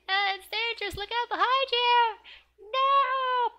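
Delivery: very high, loud panicked warning; yelling at the TV. Acted. Girl watching a gun scene warns the TV character, yelling. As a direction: scream a warning as if they could hear you. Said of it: "so she's yelling at the T V".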